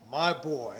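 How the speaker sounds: fond. Shown as a demonstration. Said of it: "not expressing a term of endearment".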